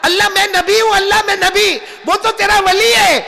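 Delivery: high, pleading cry; crying out to God. A narrator's reading. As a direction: call out to God in tears. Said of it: "तो वहीं जाके रोने लगे".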